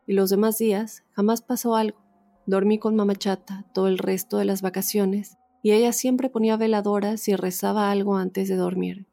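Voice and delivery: measured read-aloud testimony, pauses between phrases; story narration. A narrator's reading. Host reads a listener's ghost story to the audience, story narration. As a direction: read it out as a first-person true tale.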